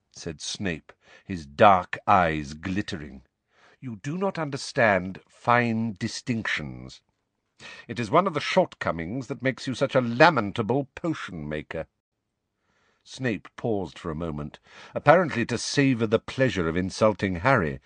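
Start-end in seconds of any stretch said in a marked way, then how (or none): 3.8-11.9 sneering teacher. Acted. Snape voiced by narrator.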